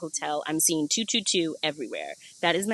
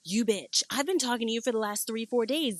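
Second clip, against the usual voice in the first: higher-pitched, incredulous mock accusation; mock outrage; 4 semitones higher than usual. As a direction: playfully call out a friend's secret. Acts confronting husband revealed as shaman.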